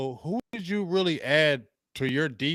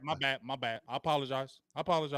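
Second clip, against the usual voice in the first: mock apology; 9 dB quieter than usual. Real, not acted. Backing down mid-argument.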